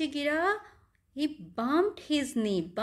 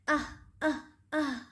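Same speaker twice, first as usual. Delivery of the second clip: short, pretend "ah" of hurt; three little play-acted ouches; mock cries of pain; much slower than usual. Teacher as the monkey with a bumped knee, mock pained cries.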